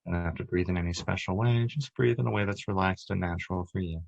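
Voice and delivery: calm, measured meditation voice with long pauses; unhurried, even-toned relaxation guide; guided meditation. Acted. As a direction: guide them gently through breath and body, leaving space between phrases.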